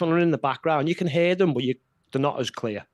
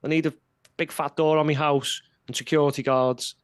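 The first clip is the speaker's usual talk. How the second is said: higher, lightly hammed-up panicky whine; mocking whiny snowflake; 4 semitones higher than usual. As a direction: parody them as fragile and alarmed. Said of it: "and it's".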